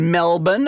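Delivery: Melbourne with a swallowed second syllable; proper local pronunciation. Shown as a demonstration. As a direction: say Melbourne the Australian way, no R. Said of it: "I know enough about Australia to pronounce Melbourne properly".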